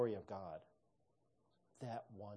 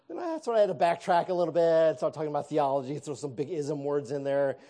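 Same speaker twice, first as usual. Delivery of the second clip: laughing; 3 semitones higher, 12 dB louder than usual. Real, not acted. Still laughing telling awkward story.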